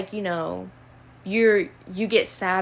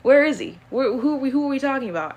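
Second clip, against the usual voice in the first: mock friend search; 5 semitones higher than usual. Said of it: "I hate when people are like".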